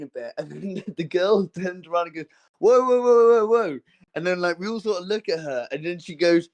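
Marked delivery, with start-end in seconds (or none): 2.6-3.8 louder, higher retold call to stop; urgent interjection. Girl turns round to break up the argument, urgent. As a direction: cut in to halt a quarrel.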